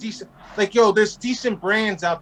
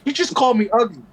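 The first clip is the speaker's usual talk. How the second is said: whiny redneck; 5 semitones higher, 4 dB louder, faster than usual. Retold or imitated. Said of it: "They're like".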